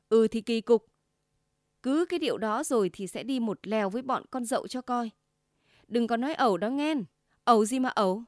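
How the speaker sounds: loud exasperated retort; quarrel shout. Acted. Wife snapping back loudly at husband in quarrel.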